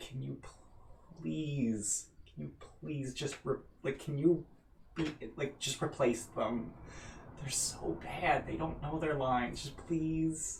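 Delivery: very quiet, secretive, hushed whisper. Voicing an actor who pleads with the players backstage: whispering. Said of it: "and then whispers to you".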